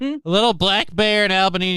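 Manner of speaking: real voice crack. Real, not acted. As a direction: voice cracking upward mid-phrase. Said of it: "Fucking voice crack again".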